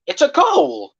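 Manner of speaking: high, loud, slow furious shout; furious ranting. Real, not acted. Fan raging at the disallowed goal, furious slow shout. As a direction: rage at the decision, stretching the words.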